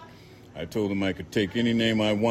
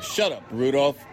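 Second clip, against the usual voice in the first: a hint of the redneck snapping, higher; snapping at dog; 6 semitones higher than usual. A narrator's reading. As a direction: cut the dog off. Man snaps at his dog.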